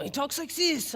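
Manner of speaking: mock French accent. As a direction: imitate his French accent lightly. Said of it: "he has this French accent".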